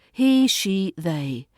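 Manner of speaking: ordinary talk, nothing marked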